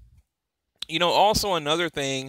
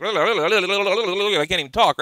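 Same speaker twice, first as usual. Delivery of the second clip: laughing; 5 semitones higher, 4 dB louder, much slower than usual. Real, not acted. Laughing at own excitement.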